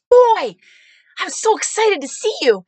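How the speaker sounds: imitated high, loud whoop of delight; excited supporter. Supporter welcoming the candidate at his truck, excited. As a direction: whoop it out like a thrilled fan.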